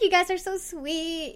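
put-on high, gushing Valley Girl. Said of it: "the Valley Girl inside me built up".

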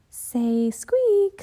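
put-on a keen girl coaxing her brother; lively Annie. Annie playful.

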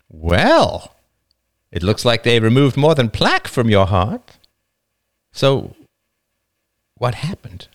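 wife. Acted. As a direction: ask him with a wry edge. Wife voiced in the story.

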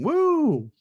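high-pitched drawn-out woo; celebratory whoop. Real, not acted. Host applauds guest's cross-training, celebratory high whoop. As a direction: cheer them on with a high whoop.

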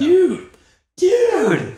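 shouting. Retold or imitated. Quoting the movie's dude scene.

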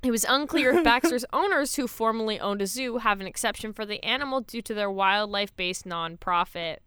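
lively read-aloud news report. Acted. Host reading co-hosts a kangaroo story, news read. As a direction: read it out like a newsreader.

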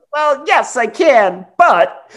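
high, strained mock whine. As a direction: squeeze it out like a man holding it in. Mimics Fletcher's strained reply.

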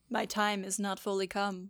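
a touch of mock angst; lightly dramatise the quote; mildly angsty. Reading Jesus's words from her notes, mildly angsty. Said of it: "It just felt a little angsty".

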